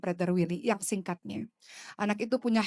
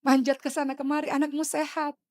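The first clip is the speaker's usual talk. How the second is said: wistful inner words; 5 semitones higher than usual. Retold or imitated. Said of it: "saya katakan dalam hati".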